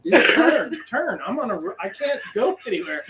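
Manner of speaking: high, urgent "turn, turn" through laughter; begging the bird to swerve, half laughing; laughing plea. Retold or imitated. Sick tour guide on a scooter pleading with a seagull, laughing.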